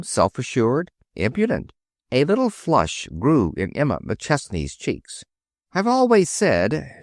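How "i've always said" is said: crisp. A narrator's reading. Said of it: "she began crisply".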